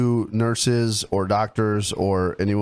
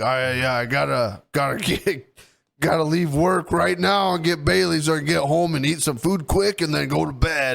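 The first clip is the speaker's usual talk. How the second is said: slightly raised, teasing singsong; mocking imitation; 5 semitones higher than usual. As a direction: parody the friend's fussy routine. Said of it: "You're always like".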